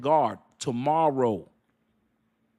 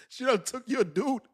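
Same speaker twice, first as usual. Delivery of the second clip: laughing disbelief; 6 semitones higher than usual. Real, not acted. Laughing retelling of betrayal.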